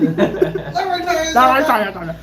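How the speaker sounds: laughing "Let me tell you something" with lax consonants; numb mouth. Retold or imitated. Patient to mom, laughing numb-mouthed "Let me tell you something". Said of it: "with, like, a numb freaking mouth".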